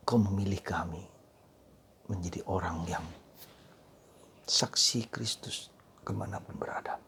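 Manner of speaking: soft, low prayer voice, drifting into whispers; hushed prayer; quiet prayer. Acted. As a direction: pray it gently and inwardly. Closing prayer before the homily.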